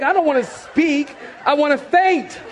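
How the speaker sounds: hammed-up victim's whine; mock desperate protest. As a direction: plead as if your head is being squeezed. Victim of squeezed head protests.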